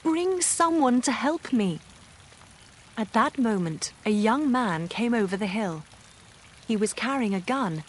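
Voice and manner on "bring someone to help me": shouting for help. A narrator's reading. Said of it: "Marianne shouted".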